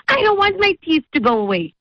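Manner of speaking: put-on crying child. Scared boy pleading with the host, tearful high whine. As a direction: plead it like a scared little boy about to cry. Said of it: "he started crying".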